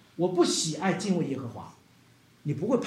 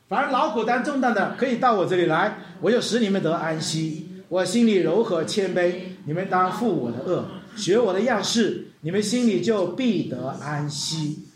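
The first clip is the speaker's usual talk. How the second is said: scripture recitation. Acted. Congregation reads scripture together.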